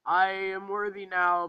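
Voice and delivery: slow, lightly mocked heroic declaration; a hint of cheesy grandeur, drawn out; Thor. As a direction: mildly imitate a noble hero. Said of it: "Thor is just like".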